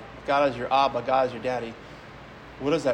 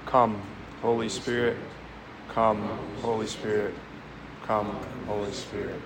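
softer with each repeat, prayerful; prayerful invocation; 4 semitones lower, 5 dB quieter than usual. Acted. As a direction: fade gently with each call. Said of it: "pray the words with me three times".

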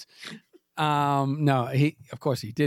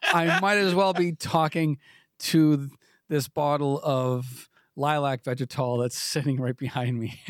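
mock pleading. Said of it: "He begged and pleaded".

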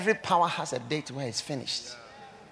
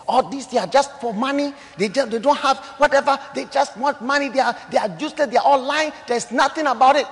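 loud, higher mocking scoff; scornful auntie; 6 semitones higher, 7 dB louder, faster than usual. Auntie mocking pastors, loud and scornful. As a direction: sneer at greedy pastors.

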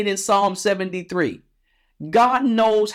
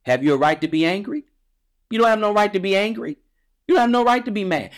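fast, building, higher rebuke; God scolding, voice climbing quicker; rising rebuke; 3 semitones higher, much faster than usual. Acted. God rebukes Jonah in a quick, rising, scolding voice. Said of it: "But the Lord replied".

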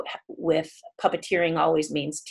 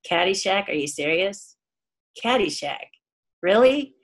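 deadpan. Retold or imitated. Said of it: "gives me this deadpan look".

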